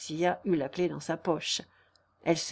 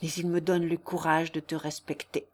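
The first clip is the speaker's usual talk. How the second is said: earnest lovelorn declaration, gently raised; ardent suitor; 3 dB louder than usual. Acted. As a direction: plead devotion with mild fervour. Narrator plays pleading suitor.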